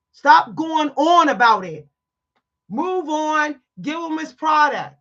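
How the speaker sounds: loud, firm telling-off; loud scolding. Retold or imitated. Scolding the clerk to serve the man, loud. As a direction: order her to back down.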